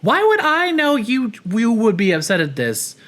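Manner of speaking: high, baffled retelling of own reaction; incredulous quote. Retold or imitated. Vlogger mimicking her confused reaction, high and baffled. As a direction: squeak it out in disbelief. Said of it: "And I was like".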